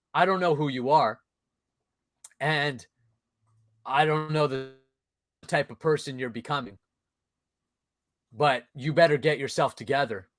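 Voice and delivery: understated disappointment with long pauses between phrases; disappointed father. Retold or imitated. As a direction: imitate a dad's measured, restrained reproach. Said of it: "it was his disappointment and his masculinity".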